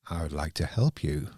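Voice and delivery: flat, even computer voice; monotone robot voice. Retold or imitated. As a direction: say it with no feeling at all. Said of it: "very flat, monotone voice".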